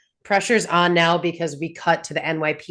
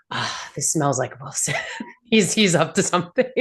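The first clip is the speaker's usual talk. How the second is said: lightly voiced suspicion. Host imagining Matt sensing Wilson's hand, lightly imitated suspicion. Voicing Matt's suspicious thought.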